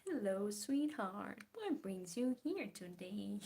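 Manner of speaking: a Southern hostess greeting in a hammed-up accent; sweetheart Southern accent. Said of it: "I have a sweetheart Southern accent".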